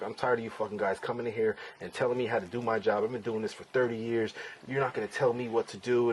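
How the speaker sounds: a hint of a condescending lawyer, lecturing; mock lawyer brushing off his client, understated; fed-up lawyer. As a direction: lightly play the lawyer who won't be told. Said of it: "he's talking just like this to me".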